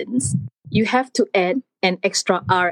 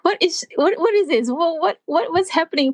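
higher-pitched, puzzled protest; retold bafflement; 6 semitones higher than usual. Student recalling hearing prata in Swedish class, baffled. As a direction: act out your own confusion in class. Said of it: "and I went, I was sitting down and, like".

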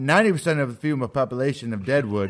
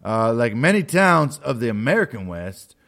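dramatic narrator voice; 3 semitones lower than usual. Acted. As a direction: read it like a western documentary. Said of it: "Quit talking like that".

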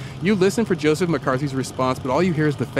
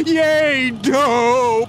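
put-on much higher, louder childish yay; gleeful cheer; 7 semitones higher, 3 dB louder than usual. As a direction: celebrate like a kid with candy. McCarthy celebrates deal.

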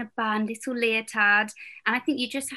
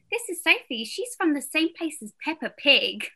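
higher, sing-song parent voice; parent to child; 5 semitones higher than usual. Retold or imitated. Parent introducing a performer to their child, higher explaining voice.

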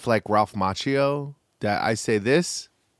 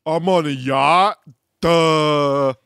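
a slightly higher, louder mock voice of a bored rich girl; 4 semitones higher, 4 dB louder, much slower than usual. Podcast host mocking the silent twins at dinner, mock bored voice. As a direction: sneer it out like a spoiled girl on a yacht, lightly done.

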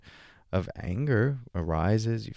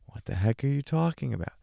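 confused listener; 6 semitones higher, faster than usual. Retold or imitated.

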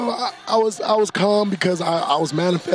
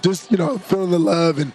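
lost voice. Real, not acted. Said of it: "my voice is gone".

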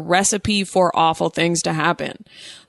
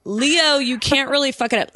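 put-on Valley Girl voice; 4 semitones higher than usual. Shown as a demonstration. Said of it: "Valley Girl, white girl voice".

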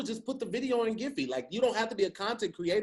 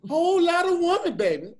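much higher, louder sultry movie voice; bad Foxy impression; 10 semitones higher, 8 dB louder than usual. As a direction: vamp it up like a sexy movie heroine.

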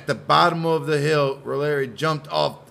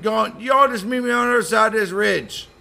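put-on eager kid voice; 9 semitones higher, 5 dB louder than usual. Voicing Jimmy.

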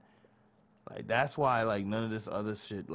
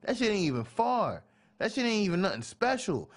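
animated; 11 semitones higher than usual. Retold or imitated. Animated retelling of begging.

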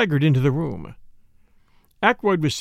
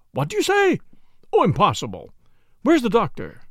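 higher, incredulous outburst; horror-stricken disbelief; 6 semitones higher than usual. A narrator's reading. Secretary hears of the murder outside, horror-stricken. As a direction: cry out as if it can't be true. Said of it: "horror-stricken and incredulous".

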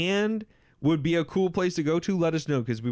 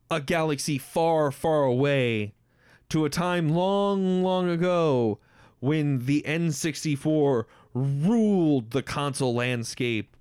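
epic fantasy narrator. Pretend. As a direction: intone it like an epic opening crawl. Star Wars style intro of next game.

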